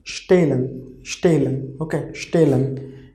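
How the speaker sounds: stehlen said shtay-len with a silent h; German pronunciation demo. Shown as a demonstration. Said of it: "H we will pronounce really less".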